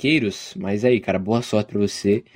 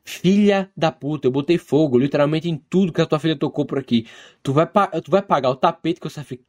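angry retort; 5 semitones higher than usual. Acted. Acts angry phone reply in story.

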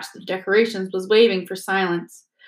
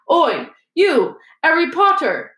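louder, higher gruff call; grim dwarf shout; 8 semitones higher, 4 dB louder than usual. A narrator's reading. Dwarf calls after Harry, a mild shout. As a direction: bark his name down the corridor. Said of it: "shouted a particularly grim-looking dwarf".

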